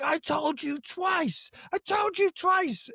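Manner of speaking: very high, slow mock rant; mock furious customer repeating himself; angry bloke voice. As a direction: drag it out like a petulant tantrum.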